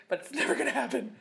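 high, quick, loud through laughter; giggly aside; laughing. Real, not acted. Laughs at their own wish.

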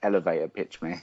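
Essex accent, dropped ending on elevator. Real, not acted. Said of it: "That's my Essex accent".

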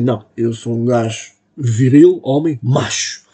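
macho voice. Retold or imitated. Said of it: "E eu pensei".

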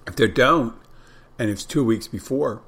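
talking while munching; chewing while talking. Real, not acted. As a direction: speak round a mouthful of food. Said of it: "I'm munching when I'm doing this stuff".

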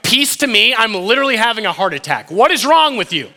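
high, indignant mock panic; mock freaking out. Disciple reacting to Jesus appearing, hammed-up panic. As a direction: protest as if badly startled. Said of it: "I'm, like, freaking out".

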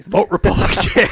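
hushed ghostly whisper. Acted. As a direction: breathe it like a dying ghost.

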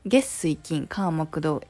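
"月水金火木土" in standard Tokyo pitch; standard Japanese intonation. Shown as a demonstration. Contrasting with Kansai for listeners, standard pitch. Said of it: "But in normal Japanese".

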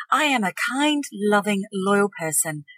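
brighter start, settling into calm; growing belief. Shown as a demonstration. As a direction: say it as if you're starting to mean it. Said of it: "A little bit later on".

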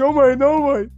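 put-on high, wailing child pleading; mock blubbering, beg through hammed-up sobs; imitated crying. Cousin begging his mother to send dad instead, imitated crying. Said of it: "meu primo chorando assim".

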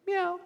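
squeaky high-pitched meow; high cat meow. Retold or imitated. The revived cat meowing, high and thin. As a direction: meow like a small cat waking up. The dead cat comes alive.

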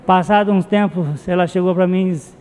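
ordinary talk, nothing marked

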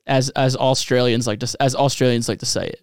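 lightly put-on Aussie accent; attempted Australian accent. Host explaining his name in a mock Australian accent. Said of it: "I'm gonna do an Australian".

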